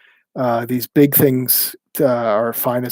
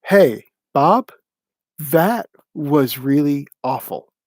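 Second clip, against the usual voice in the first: firm call-out; slower than usual. Retold or imitated. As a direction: call him out on it plainly. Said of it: "the option to say".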